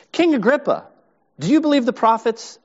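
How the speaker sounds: earnest appeal. Retold or imitated. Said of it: "His appeal".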